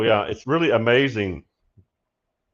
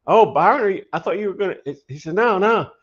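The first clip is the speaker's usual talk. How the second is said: higher, louder eager voice; excited friend; 8 semitones higher, 4 dB louder than usual. Retold or imitated. Byron excitedly interrupts on the phone, eager and loud. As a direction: gush with excitement. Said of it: "he says".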